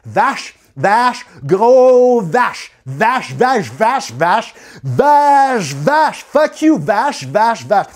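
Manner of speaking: put-on anglophone accent chanting vache on a loop; English-accented neighbour hurling vache at her; English-accented insult. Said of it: "avec son accent".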